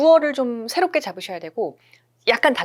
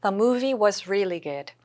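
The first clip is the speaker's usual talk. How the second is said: slow, clear model read; slow model sentence; 3 dB quieter, much slower than usual. Shown as a demonstration. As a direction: read it slowly for learners to follow. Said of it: "잘 요거 좀 느껴지시죠?". (천천히 예문 읽기)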